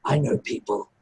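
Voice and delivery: hint of a wise goblin addressing the party; goblin Cass. DM voicing goblin Cass to the party, lightly voiced, measured.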